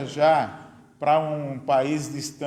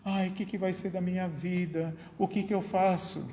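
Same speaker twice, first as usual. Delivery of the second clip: mock widow's lament; 4 semitones higher, 6 dB quieter than usual. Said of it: "chorando, reclamando".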